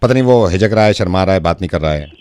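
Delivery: low, measured doctor voice; discreet doctor. Acted. Prank doctor calls about a private matter, discreet low voice. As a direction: speak low and carefully, like a consulting doctor.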